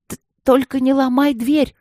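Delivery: high, loud stammered shout. A narrator's reading. Алина кричит парням через дверь туалета, громко и высоко. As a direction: yell in panic to stop him. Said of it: "крикнула Алина".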